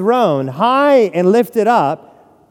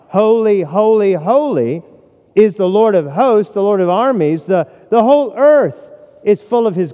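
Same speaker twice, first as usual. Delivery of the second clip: a hint of an angel's ringing cry; angels crying out; 2 semitones higher, 3 dB louder than usual. Preacher voicing angels who cry out, lightly raised. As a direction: proclaim it a little louder, like angels calling. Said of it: "the angels cry out".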